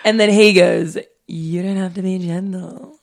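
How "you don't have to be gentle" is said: lightly put-on creepy croon; smooth jazz voice. Host repeats date's line to tease friend, lightly creepy jazz voice. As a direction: ease through it like a mild smooth-jazz creep. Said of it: "I'm not liking this voice at all".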